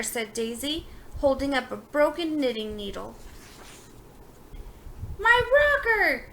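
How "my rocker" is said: high, loud anguished yell. A narrator's reading. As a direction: yell it out, outraged about his chair. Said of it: "yelled Donald".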